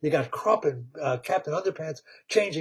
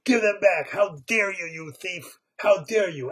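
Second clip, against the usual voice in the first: indignant shout; 3 semitones higher than usual. Acted. Bear confronting underpants thief.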